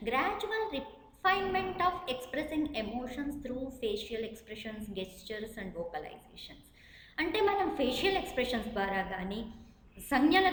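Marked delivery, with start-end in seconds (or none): 0.1-6.6 each word spelled out slowly for note-taking; slow dictation. Acted. Teacher dictating a definition to students, slow and deliberate. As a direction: read it slowly so students can write.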